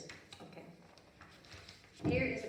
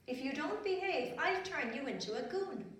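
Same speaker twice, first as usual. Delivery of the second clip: fairy voice; 6 semitones higher than usual. Acted. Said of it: "and she said".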